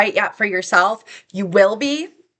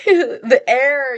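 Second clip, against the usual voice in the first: teary; 4 semitones higher than usual. Real, not acted. Overcome while recalling the moment.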